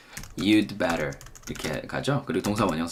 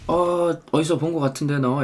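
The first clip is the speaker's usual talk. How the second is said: casual question; 7 semitones higher than usual. Acted.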